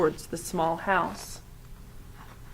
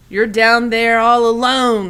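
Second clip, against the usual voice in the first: stars speaking; 3 semitones higher, 9 dB louder than usual. A narrator's reading. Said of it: "the stars seemed to say".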